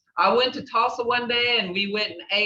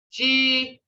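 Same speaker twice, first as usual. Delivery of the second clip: broken into syllables; 4 semitones higher, much faster than usual. Shown as a demonstration. Teacher showing the class "Shihijagathis", broken up syllable by syllable. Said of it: "see how I broke up those two syllable words".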